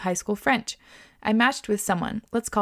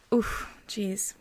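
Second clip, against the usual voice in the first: whispered wince; 6 dB quieter than usual. Real, not acted. Reacting to plot twist.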